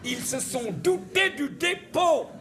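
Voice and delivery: the pun repeated, hammed up for a deaf listener. Shown as a demonstration. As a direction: say it again bigger so they get it.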